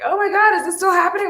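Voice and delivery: squealed high, excited disbelief; a high shocked squeal of disbelief; mock shocked viewers. Viewers gasping at her old video, high and shocked.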